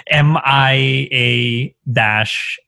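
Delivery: slow letter-by-letter spelling. Shown as a demonstration. Spelling out a town name slowly for a friend. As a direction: spell it out slowly for someone who can't say it. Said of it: "I can't say it".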